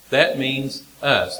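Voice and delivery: "That means us" said slow with a falling end; slow, falling restatement. Shown as a demonstration. Preacher repeating "That means us" slowly to listeners. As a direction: lay it down slowly and firmly.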